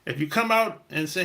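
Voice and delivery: ordinary talk, nothing marked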